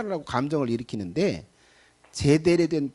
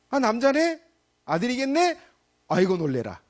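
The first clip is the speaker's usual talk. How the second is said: mock startled wife; 7 semitones higher than usual. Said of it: "이렇게 된 거예요".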